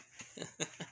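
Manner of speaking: soft, breathy acted laugh; low-volume breathy chuckle. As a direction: chuckle quietly in character. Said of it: "the Wizard King just laughing".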